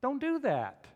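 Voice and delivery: loud, high-pitched command; forceful acted warning; pain's urgent warning. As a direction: cry it out as an alarm. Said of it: "Pain says".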